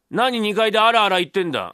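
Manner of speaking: annoyed call from downstairs; scolding father. Acted. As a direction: shout up at the noisy one upstairs. Father scolds the noise upstairs.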